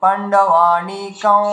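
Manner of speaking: পাণ্ডবানিকং said very slowly, ending in a nasal ং; careful drawn-out পাণ্ডবানিকং; teacher giving the grammatical form; by the grammar. Shown as a demonstration. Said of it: "ব্যাকরণ অনুযায়ী উচ্চারণ হওয়া উচিত".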